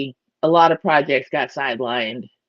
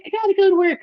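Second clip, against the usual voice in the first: mock husband; much faster than usual. He's like.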